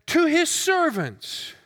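measured, formal Bible reading; solemn public reading of a parable; scripture reading. Acted. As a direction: read the passage aloud with weight. Scripture read before the sermon.

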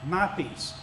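My pressed hard, peace falling softly after it; stress on My. Shown as a demonstration. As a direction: lean on the word My. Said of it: "the emphasis is on my peace".

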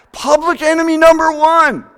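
booming, high proclamation; dramatic proclaim. Acted. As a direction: trumpet it like a title. Dramatic buildup of Zacchaeus.

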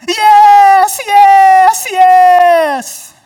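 shouted high, hearty yeses; booming yes. Retold or imitated. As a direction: belt it out like an eager greeter. Imitating Brian again.

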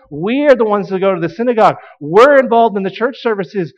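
acting out proud certainty, hammering each claim; self-assured insistence. Pharisees' self-justifying claim acted out.

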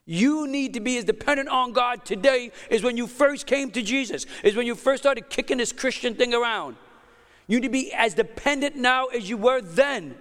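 urging a congregation from the pulpit; impassioned preaching. Real, not acted. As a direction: preach it with conviction, driving each point home. Preaches with raised intensity.

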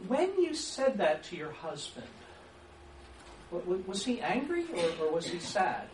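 leading either-or question; menu question demo. Shown as a demonstration. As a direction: ask it as a closed menu of two answers. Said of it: "You see what I've just done?".

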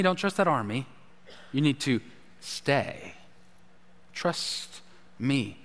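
soft and low, pleading, fading almost to a breath; gentle voice of God. Acted. God urging his fearful people to stay, soft and low. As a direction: hush it like a father calming scared children.

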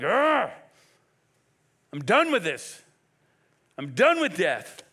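exasperated growl into firm, loud declaration; acted angry outburst; crying out in anger. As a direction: act out being fed up, punching "done". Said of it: "is he crying out in anger?".

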